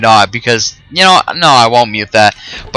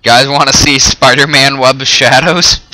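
sarcastic. Real, not acted. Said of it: "I'm being sarcastic about that".

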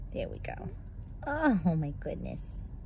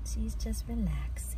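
hushed whisper so the puppy rests; 4 semitones higher, 9 dB quieter than usual. Real, not acted. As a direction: whisper softly, don't wake her. Puppy resting.

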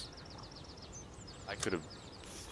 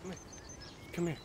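coaxing; 7 dB quieter, much faster than usual. Pretend. Coaxing the hooked fish.

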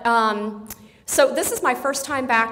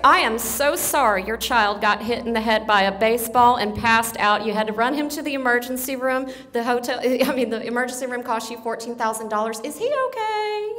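mock sympathy. Shown as a demonstration. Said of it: "that translates to".

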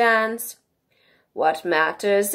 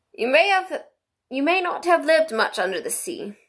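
high-pitched, plaintive storybook turtle; Mock Turtle; 6 semitones higher than usual. A narrator's reading. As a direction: voice a tearful old sea creature, pitched up.

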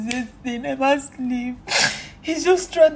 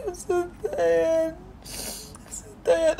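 weary; 4 semitones higher, 3 dB quieter, much slower than usual. Real, not acted.

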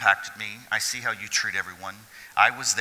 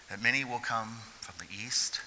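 hushed scripture; 7 dB quieter than usual. Acted.

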